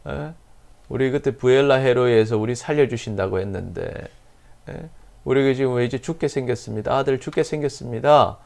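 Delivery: a touch of crying in a pleading prayer; tearful plea. Retold or imitated. Hagar pleads with God as her son is dying, mild tearful cry. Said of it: "소리 내어 울었어요".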